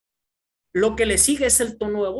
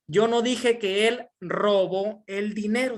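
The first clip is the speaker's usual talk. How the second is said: "dije" con subida marcada; énfasis en DIJE. Shown as a demonstration. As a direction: golpea la palabra "dije". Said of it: "el énfasis que le estoy dando". (acento enfático en "dije")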